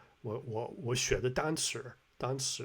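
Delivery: attempted Beijing accent with R-coloured endings; imitated Beijing accent. Imitating the man for viewers, Beijing accent. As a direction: try out a Beijing erhua on 单词. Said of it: "He's like".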